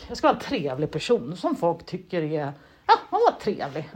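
chuckling through a mock pep talk to herself; laughing mock self-talk. Mocking her stiff dinner-party self, laughing. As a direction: laugh as you parody being nice. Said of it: "så måste jag ändå vara så här".

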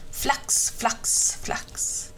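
whispery, voiceless 'flax' wingbeats; flapping wing sounds. A narrator's reading. Reader sounds the crow's wings for children, voiceless flapping. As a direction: puff out each flap softly.

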